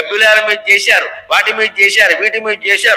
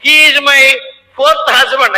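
mocking Western wife; 6 semitones higher, much slower than usual. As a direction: show off the fourth husband without shame. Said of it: "అని చెప్పేస్తున్నారు". (ఇంటర్వ్యూలో భార్య సిగ్గులేకుండా, ఎత్తైన గొంతుతో)

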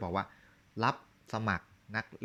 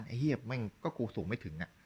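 a cocky, shrugging กูสูงไม่ถึงอะ, not beaten; mock defiant; 2 semitones higher than usual. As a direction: toss it off like it doesn't matter. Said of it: "แต่ในทางกลับกัน". (ทำเสียงกวนๆ ไม่ยอมแพ้แบบล้อเลียน)

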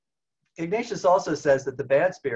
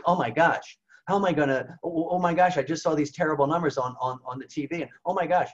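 higher, hammed-up flustered worrying; mock panic; 4 semitones higher than usual. Someone panicking over terrible pandemic numbers on TV, mock panic. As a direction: imitate someone spiralling after the news. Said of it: "Oh, and you get panicky".

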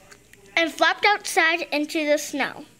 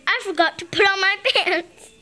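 laughing; 3 semitones higher, faster than usual. Real, not acted. Laugh heard in line.

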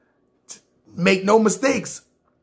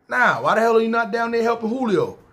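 a hint of the Italian boss, pitched up; light mock boss scolding; imitating Italian boss; 6 semitones higher than usual. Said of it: "So he talk, Italian dude".

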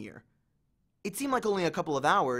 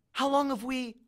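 put-on alarmed girl; 8 semitones higher than usual. A narrator's reading. Annabeth alarmed.

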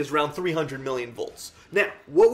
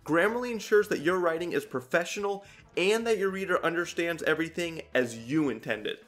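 ad read. Acted. Reads sponsor ad.

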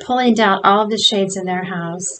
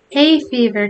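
a breathless, slightly louder gasp; 4 semitones higher, 4 dB louder than usual. Acted. Alan gasping an excuse to Tom, mild gasp. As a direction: gasp it out mid-laugh. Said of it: "gasped Alan".

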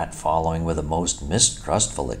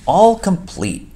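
much higher and louder, slowly savoured; triumphant; 12 semitones higher, 7 dB louder, slower than usual. A narrator's reading. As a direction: crow it like a proud showman. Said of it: "said the toad triumphantly".

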